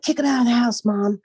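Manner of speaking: imitating daughter. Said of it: "she would be like".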